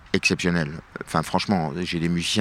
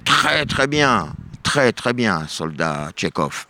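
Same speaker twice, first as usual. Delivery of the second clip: very slow, drawn-out very good, fading at the end; mock general, slow approval; slower than usual. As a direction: savor the answer like a satisfied general.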